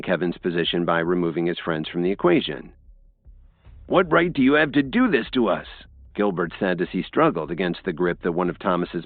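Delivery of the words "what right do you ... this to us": indignant protest. A narrator's reading. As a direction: struggle and protest. Gilbert struggling against guard.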